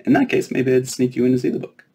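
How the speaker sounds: put-on high, bright-eyed fairy girl, teasing. Fairy princess quizzing the giant girl, high and playful.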